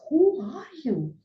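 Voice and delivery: a frightened, confused Arjuna begging God to explain; Arjuna bewildered. Retold or imitated. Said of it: "And he says".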